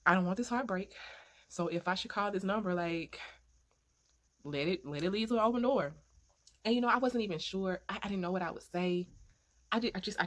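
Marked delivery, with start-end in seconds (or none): 0.0-5.9 pleading prayer. Retold or imitated. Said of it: "I was like, Lord".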